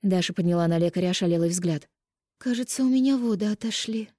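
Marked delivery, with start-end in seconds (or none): 2.4-4.1 high, hushed disbelief; realising her waters broke; a dazed wheeze; stunned rasp. A narrator's reading. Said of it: "просипела".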